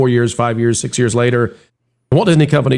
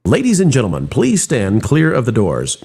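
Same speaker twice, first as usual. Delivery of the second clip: monorail spiel. Retold or imitated. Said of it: "they're now saying in the spiel".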